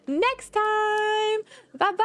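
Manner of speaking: high, slow, laughing sign-off; sing-song goodbye. Acted. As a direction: stretch out the farewell playfully. Drawn-out sign-off.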